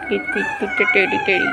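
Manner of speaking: very high squeaky cooing. Real, not acted. Cooing over a cute teddy, very high.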